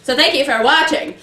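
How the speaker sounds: 1930s radio voice. Acted. Hosts mimic the radio voice.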